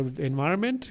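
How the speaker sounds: "environment" in a slight Eastern European accent, rising at the end. Real, not acted. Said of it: "Where the fuck the weird accent?".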